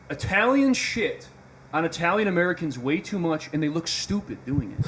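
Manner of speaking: reading the take off the slide, very slow on "Italians shit"; slow formal reading. Shown as a demonstration. Podcast host reads his take off the slide, slow and deliberate. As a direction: announce it slowly like a headline. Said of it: "I'll read off what my take is".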